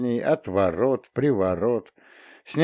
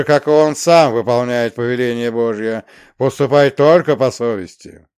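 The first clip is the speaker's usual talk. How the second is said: booming archangel voice, much louder; deafening thunderous voice; 6 dB louder than usual. Acted. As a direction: thunder the command like a heavenly herald. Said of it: "оглушительно громовой голос".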